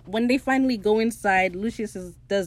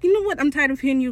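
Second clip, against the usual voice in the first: high, loud, exasperated outburst; irritated snap; 5 semitones higher, 4 dB louder, faster than usual. Retold or imitated. Jim snapping at Lucius to get back in, loud and fed up.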